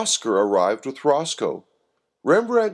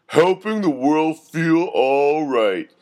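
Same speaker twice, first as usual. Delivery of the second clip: knowing; 5 semitones higher, 4 dB louder, slower than usual. A narrator's reading. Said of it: "with a knowing wink".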